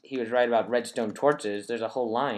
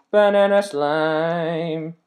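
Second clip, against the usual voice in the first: louder, slow, drawn-out name call; announcer intro; 6 semitones higher, 9 dB louder, much slower than usual. Acted. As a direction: boom your own name like a show host. Introducing himself at video start.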